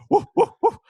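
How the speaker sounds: high, loud woofs; dog bark. Shown as a demonstration. Host doing a dog as the chosen accent, barking. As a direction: bark like an excited little dog. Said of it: "so that's a dog".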